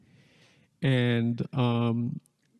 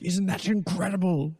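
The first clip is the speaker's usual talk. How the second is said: dad's voice; 6 semitones higher than usual. Retold or imitated. Dad quoted excitedly in story.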